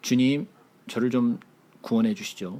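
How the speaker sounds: deep voice pressed down low. Asking if someone crying out to be saved spoke like this: lowered deep voice. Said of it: "목소리를 깔면서 이렇게 얘기를 했을까요?".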